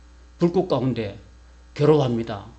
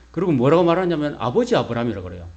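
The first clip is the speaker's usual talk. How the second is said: usual speaking voice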